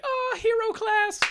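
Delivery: very high-pitched gasp of wonder; mock awe. Onlookers seeing his class, mock awe. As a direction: marvel in hammed-up amazement.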